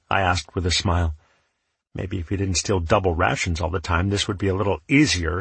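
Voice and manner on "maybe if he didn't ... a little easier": gritted teeth. Acted. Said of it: "he said through gritted teeth".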